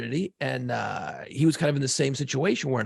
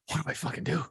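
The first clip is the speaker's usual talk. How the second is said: panicky; 5 dB quieter than usual. Retold or imitated. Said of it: "I was freaking".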